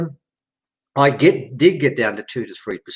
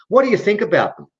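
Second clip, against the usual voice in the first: breathy whispered question, pitched up; 8 semitones higher, faster than usual. Retold or imitated. Being asks the storyteller in a whisper.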